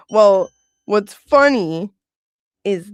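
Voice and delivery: words through laughter, loud; laughing while talking. Real, not acted. Laughing at the story.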